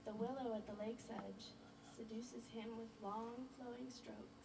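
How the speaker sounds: measured poem reading with long pauses; poetry recital. Acted. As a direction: recite a love poem to an audience. Recites own poem to audience.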